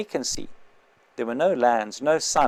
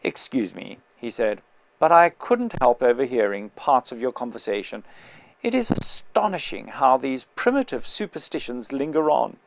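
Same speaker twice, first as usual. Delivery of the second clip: cultured voice. Acted. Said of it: "addressed me in a cultured voice".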